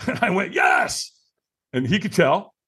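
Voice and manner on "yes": high, strained mock scream of "Yes"; re-enacted high-pitched power yell; stronger yes. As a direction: push "Yes" out with more force.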